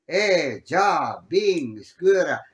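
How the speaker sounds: each word a short, loud burst; loud exclamations. Shown as a demonstration. Teacher calling out Piedmontese exclamations for the class. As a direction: call them out one by one. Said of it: "sono tutte esclamazioni".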